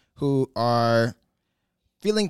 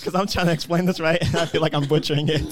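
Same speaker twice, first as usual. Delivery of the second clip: laughing; 4 semitones higher, 4 dB louder than usual. Real, not acted. Laughing at own explanation.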